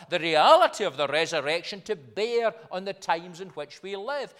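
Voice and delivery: slightly lifted, measured pulpit delivery; emphatic preaching. Acted. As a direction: preach it firmly, leaning on key words.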